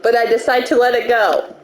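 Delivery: measured read-aloud of game text; story narration. A narrator's reading. Player reading the scene to co-hosts, narrating. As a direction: narrate it evenly, like a visual novel.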